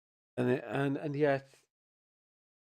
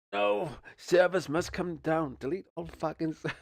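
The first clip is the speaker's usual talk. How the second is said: mock outrage; 8 semitones higher than usual. Imagines raging as a dad.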